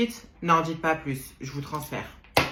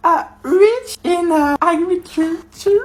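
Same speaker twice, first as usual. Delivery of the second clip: nervous reading; 7 semitones higher, slower than usual. Acted. Nervous student reading slowly.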